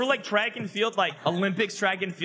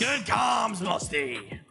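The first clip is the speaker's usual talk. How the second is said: cheering; 3 semitones higher, much slower than usual. Real, not acted. Teammate cheering goal.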